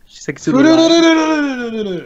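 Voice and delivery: high, slow hammed-up announcer call. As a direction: drag it out like a ring announcer.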